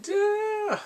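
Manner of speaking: very high, sing-song duh; a teasing, cheeky duh; mock duh. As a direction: toss it off as totally obvious. Mocking the obvious.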